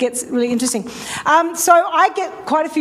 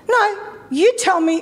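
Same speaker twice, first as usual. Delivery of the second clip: higher-pitched retort with attitude; 6 semitones higher than usual. Retold or imitated. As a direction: push back, leaning on "you". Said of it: "'cause now I'm getting attitude".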